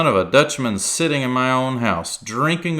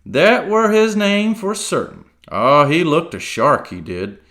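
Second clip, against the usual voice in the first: high, loud, eager rush; excited; 6 semitones higher, 6 dB louder than usual. A narrator's reading. Silver putting on excitement for Jim, loud. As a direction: fake a show of excitement. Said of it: "now quite excited".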